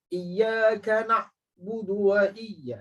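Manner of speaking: slow, drawn-out recitation; Quran recitation. Shown as a demonstration. Teacher reciting the verse as a model. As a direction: chant it slowly.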